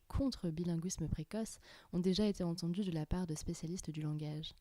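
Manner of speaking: clear, even presenter voice reading a script; a composed radio-style opening read; podcast intro read. Acted. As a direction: introduce the episode like a radio host. Host reads podcast intro over music.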